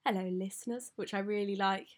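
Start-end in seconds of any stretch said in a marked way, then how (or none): 0.0-0.9 radio host greeting. Shown as a demonstration. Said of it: "When you do radio stuff, you get to say".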